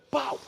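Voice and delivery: short unpitched vocal bang; quick "pau" sound effect; imitated gunshot. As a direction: mimic one shot fired. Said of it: "Aí ele fazia assim".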